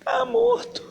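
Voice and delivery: high, stunned whisper of disbelief; horrified. Acted. Mother realising her son is dead, high and shocked.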